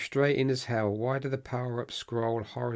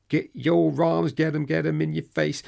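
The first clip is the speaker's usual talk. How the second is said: hype call; 6 semitones higher, 7 dB louder than usual. Acted. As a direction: boom it out like a promo. Catchphrase call-out.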